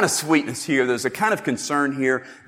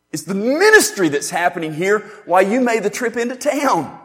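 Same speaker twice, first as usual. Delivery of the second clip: louder, higher, urgent; preacher voicing an eager Jesus; 6 semitones higher, 3 dB louder than usual. Jesus telling disciples what excites him, urgent and raised. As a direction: make them see what truly excites him.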